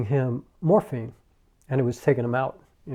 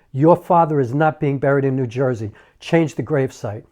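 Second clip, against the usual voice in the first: louder, emphatic order; firm insistence; 5 dB louder than usual. Retold or imitated. Mother refusing a New Jersey burial, insistent. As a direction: lay down the law.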